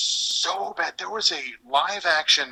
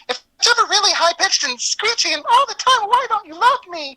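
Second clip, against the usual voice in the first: put-on high, screechy whiny girl; annoying girl voice; 6 dB louder than usual. Imitating a colleague's high screechy girl voice. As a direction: whine it like a clingy anime girl. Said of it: "that's her go-to annoying girl voice".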